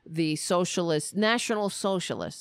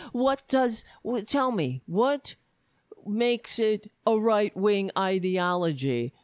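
needling a speaker who won't answer; mock demanding challenge; 3 semitones higher than usual. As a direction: imitate a heckler pressing for an answer. Retold heckler demanding answer.

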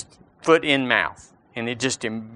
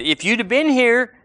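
grieving sisters' plea; 7 semitones higher, 3 dB louder than usual. Retold or imitated. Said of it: "they said".

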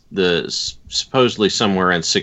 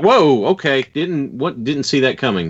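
higher-pitched, taken-aback reaction; mock surprise; 6 semitones higher than usual. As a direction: act out being caught off guard. Acting out surprise at accent.

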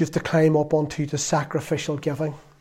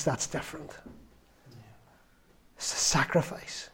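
barely voiced, dropping almost to a whisper; hushed; 4 semitones lower, 14 dB quieter than usual. Real, not acted. Preacher hushing his congregation on sacrifice, whispered. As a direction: let it fall to a breath.

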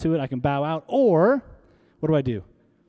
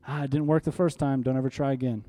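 devil taunting softly; 4 semitones lower, 4 dB quieter than usual. Retold or imitated. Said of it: "what the devil would love".

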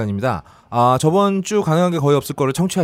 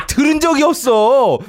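laughing; 9 semitones higher, 4 dB louder, slower than usual. Real, not acted. Laughing at the fake contest.

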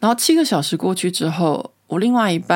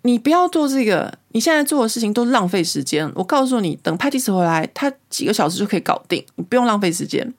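higher, bossy mock scolding; imitating a scolding; 4 semitones higher than usual. French wife scolding the Canadian man for wasting time, mock scold. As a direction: play the nagging wife cutting him off. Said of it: "那个太太就会骂他说".

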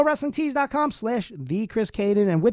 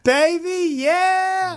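high falsetto; 11 semitones higher, 4 dB louder, much slower than usual. Pretend.

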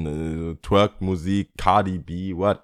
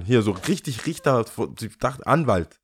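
ordinary talk, nothing marked

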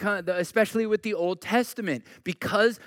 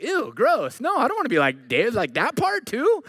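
mock disgust; 4 semitones higher, 4 dB louder than usual. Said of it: "you're like".

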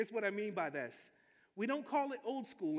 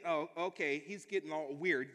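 skeptical thought; 6 semitones lower than usual. Retold or imitated. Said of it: "some of you guys gonna think".

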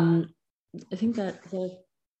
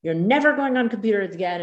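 mock threat, higher and quick; threatening parent; 4 semitones higher, 4 dB louder, faster than usual. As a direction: lay down a hasty, exasperated threat. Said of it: "threaten and be like".

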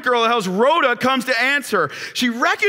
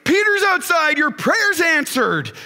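excited exclaim; 5 semitones higher than usual. Acted. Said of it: "she exclaims to the church".

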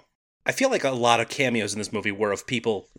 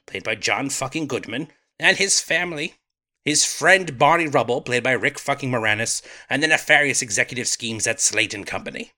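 put-on British accent. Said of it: "doing a British accent right now".

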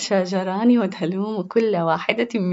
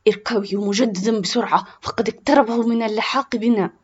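angry; 2 semitones higher, 4 dB louder than usual. Acted. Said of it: "بغضب".

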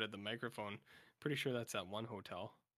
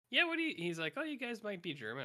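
mock suspicious local; 9 semitones higher than usual. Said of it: "This guy's like".

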